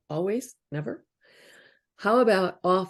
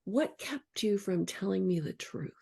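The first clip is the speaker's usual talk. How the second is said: gentle; 8 dB quieter than usual. Shown as a demonstration. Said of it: "The reach is".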